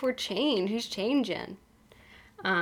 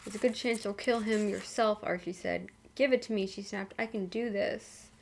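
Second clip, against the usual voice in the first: soft, even audiobook reading; measured reading with lightly acted dialogue; story narration; 7 dB quieter than usual. A narrator's reading. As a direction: read the story aloud with understated drama.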